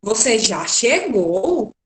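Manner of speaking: slow, drawn-out exclamation with a rise on "chegou"; astonished exclamation. Shown as a demonstration. Teacher contrasts the same sentence as a surprised exclamation. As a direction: stretch "Você já chegou" out in amazement. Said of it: "demonstrando espanto".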